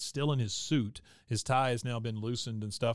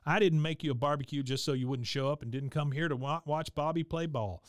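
higher, imitating a worked-up Bill; upset outburst; 3 semitones higher than usual. Bill complaining to Peggy at the game, mock upset and higher. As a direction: play it as a mock rant, pitched up.

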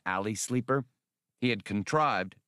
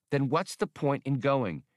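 higher, exasperated objection; remonstrating; 6 semitones higher than usual. Acted. Hasty argues against Han's plan, exasperated. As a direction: push back at him, incredulous. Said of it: "Hasty remonstrated".

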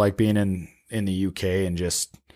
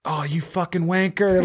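imitating an English football fan, higher and slow; hammed-up English fan jeer, pitched up; mock English accent; 9 semitones higher, slower than usual. Retelling football fans jeering in the stands, mock English accent. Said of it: "in the English accent".

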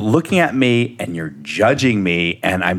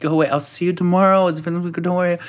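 retold soothing; 8 semitones higher, faster than usual. Dad soothing crying daughter.

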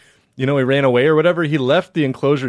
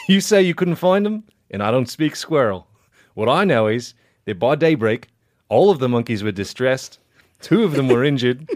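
Southern judge. Acted. Podcaster reading a judge's final statement to friends, Southern judge voice. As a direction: hand down the sentence as a Southern judge. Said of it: "Just do Southern Judge".

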